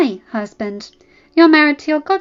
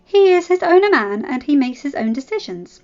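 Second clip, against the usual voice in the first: loud, raised, cutting; furious retort; 5 semitones higher, 7 dB louder than usual. Acted. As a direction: stab her with each line. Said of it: "Ella said, furious".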